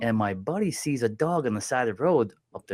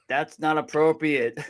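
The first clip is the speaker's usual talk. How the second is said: slow, slightly raised mock objection; disapproving heckler; 4 semitones higher, slower than usual. Comedian mimicking someone who objected to the joke, mock disapproval. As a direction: draw it out as a disapproving onlooker. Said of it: "someone in the background goes".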